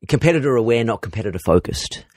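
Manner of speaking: put-on older English gent accent; old man English voice. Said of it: "got on your old man English voice just to say that quote".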